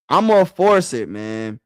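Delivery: loud, defiant declaration. Real, not acted. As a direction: insist on it loudly, chest out. Defiant insistence on forcing trade.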